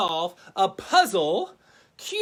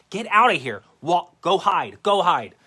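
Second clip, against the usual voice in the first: louder, playful get-out-of-here; mock shooing; 2 semitones lower, 8 dB louder than usual. Host shooing Waldo back into hiding, louder mock shoo. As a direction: wave him off with your voice.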